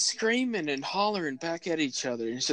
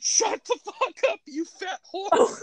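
much higher, jeering voice; mock heckling relatives; 3 dB louder than usual. Teller mimics relatives yelling at neighbor, high jeering. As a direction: sneer it high like rowdy relatives. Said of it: "They're like".

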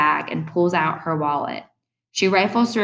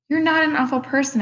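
softly; 9 semitones higher than usual. Acted. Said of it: "I say softly".

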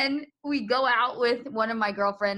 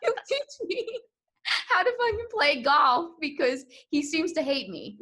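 mock jealous; 9 semitones higher, 3 dB louder than usual. Jealous of friend's coaching.

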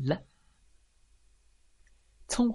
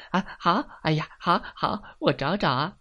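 higher, flustered bursts; flustered hopping; 5 semitones higher than usual. Acted. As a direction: stammer out agreement while bustling about. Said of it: "跳过来跳过去地说".

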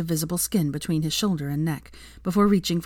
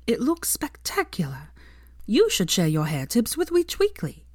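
teasing whisper; 5 semitones higher than usual. Acted. Teasing boyfriend about his hair.

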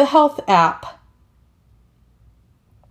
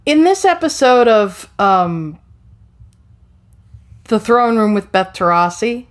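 show host intro. Acted. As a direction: announce the episode like a host. Formal show opening after quiet teaser.

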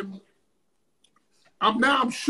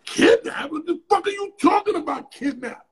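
incredulous; 6 semitones higher than usual. Retold or imitated. Questioning the stranger who warned him about kidnapping: high, disbelieving. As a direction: throw it back at him in disbelief.

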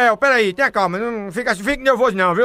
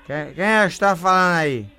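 put-on drunk voice; 4 semitones lower than usual. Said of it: "o bebo rei desmantelado".

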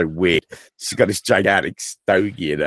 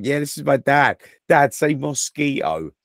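lightly voiced pestering kid, higher-pitched; higher mock child request; imitating his kids; 7 semitones higher than usual. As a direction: mimic a kid prodding dad. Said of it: "my kids do it to me".

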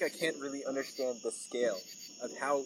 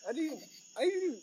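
dolphin clicks; 11 semitones higher, slower than usual. Pretend. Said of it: "I don't even know if that's a good impression".

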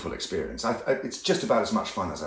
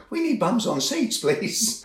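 pleading; 12 semitones higher, 3 dB louder, slower than usual. Retold or imitated. Actor pleading to audiences.

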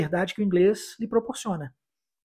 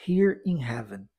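slow, lower repeat; 6 semitones lower, slower than usual. Shown as a demonstration. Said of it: "Vamos repetir essa".

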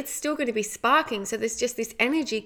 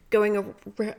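yawning. Real, not acted. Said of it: "oh, excuse me for yawning".

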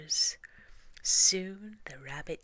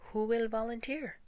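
much higher pointed question; pointed grandmother; 8 semitones higher, 4 dB louder than usual. Acted. Grandmother mouse challenging the young mouse, pointed. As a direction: press the point gently.

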